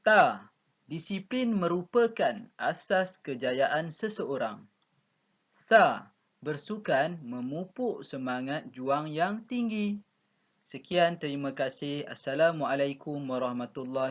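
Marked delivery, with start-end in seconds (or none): 0.8-4.6 slow, careful classroom demo reading; unhurried demo of correct statement intonation; slow model reading. Shown as a demonstration. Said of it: "Muallim nak antum rekodkan begitulah". 6.4-10.0 slow, careful classroom demo reading; unhurried demo of correct statement intonation; slow model reading. Shown as a demonstration. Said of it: "Muallim nak antum rekodkan begitulah".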